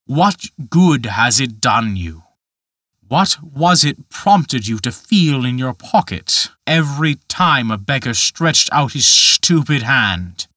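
a hint of a sneering giant; Dutch Michael, scornful. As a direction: drag out each question with contempt. Michael scolding slowly.

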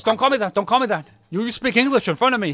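high, loud indignant retort; mock offended. Insulted old man objects, mock indignant retort. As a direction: bristle at the insult. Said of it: "and he goes".

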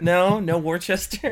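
slow, drawn-out mock British accent. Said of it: "that was a good accent".

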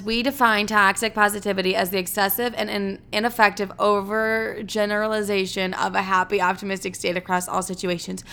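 halting read-out of a definition; unsure reader working through a sentence; struggling to read aloud. Real, not acted. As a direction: read it stiffly, stumbling on long words. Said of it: "completely struggled through that entire sentence".

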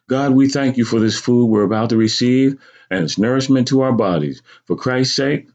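lightly voiced mother at prayer; saying grace. Mother says grace before dinner.

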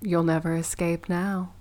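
lightly played scheming villain; mock villain. Joking to co-host about a plan to trap them, mock villain.

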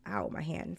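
quiet wince of pain; sudden ow from hand pain; real pain. Real, not acted. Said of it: "My hand is hurt".

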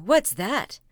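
loud, alarmed question; a startled mayor's question; startled cry. Acted. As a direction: call out at the sudden tap. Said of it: "cried the mayor".

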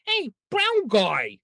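slow, drawn-out "Hey, brown guy" in a put-on accent; mock accent. Telling a coworker to greet him in a slow put-on accent. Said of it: "if you do it with an accent".

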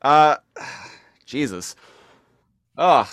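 groaning through cramp pain; strained, pained; getting a leg cramp. Real, not acted. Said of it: "my leg is cramping".

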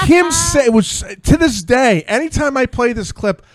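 tickled, can barely get it out; laughing. Real, not acted. Host recalling the clip, laughing through it.

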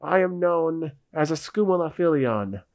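skeleton voice. Acted. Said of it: "the skeleton speaks up and says".

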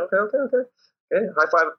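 playful coach hyping up a high five; excited okay okay. Retold or imitated. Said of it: "And I'm like".

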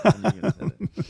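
high, fast, laughing it out; cracking up mid-sentence. Real, not acted. Laughing at his mate's divorce joke, high and fast.

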